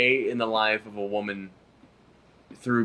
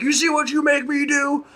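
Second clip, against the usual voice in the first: hammed-up husband, much higher and a bit louder; mock abusive husband; 4 dB louder than usual. Husband scolding his wife in the ad, mock high-pitched bully. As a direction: sneer it like a cartoon bully.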